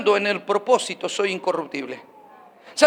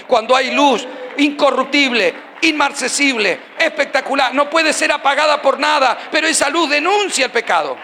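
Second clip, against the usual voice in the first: preaching at full force; 2 semitones higher than usual. Real, not acted. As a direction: lift it up like a proclamation.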